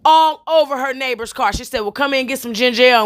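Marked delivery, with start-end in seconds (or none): 1.8-3.0 imitating her. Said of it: "that's how she said it".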